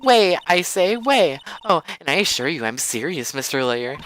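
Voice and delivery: haughty witness, insistent. Acted. Witness insisting she's serious to Mister Lawyer, high and emphatic. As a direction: fire back emphatically in a high voice, then ease down.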